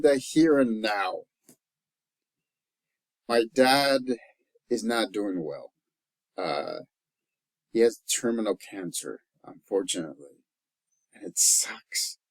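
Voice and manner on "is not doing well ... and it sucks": real grief breaking through, voice dropping quiet; emotional. Real, not acted. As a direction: let the words sink and fade to a whisper. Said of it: "I'm gonna get very emotional".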